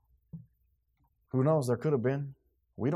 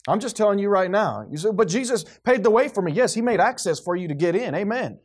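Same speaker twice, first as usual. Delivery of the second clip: forceful preaching; 5 semitones higher, 5 dB louder than usual. Real, not acted. Preaches forcefully, challenging congregation.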